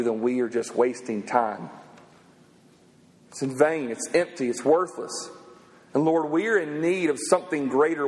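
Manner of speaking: earnest closing prayer to the Lord. Acted. Pastor praying over the congregation at the close, earnest. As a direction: pray over the room sincerely.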